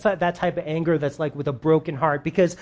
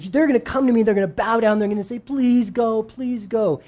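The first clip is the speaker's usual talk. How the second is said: higher, pressing warning that fades at the end; insistent warning; 5 semitones higher than usual. Retold or imitated. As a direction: drive the warning home, then let it drop. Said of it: "and he's like".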